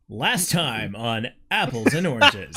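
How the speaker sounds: slow, booming trailer announcer. Pretend. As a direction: announce it like a TV recap. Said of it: "Uh, announcer voice".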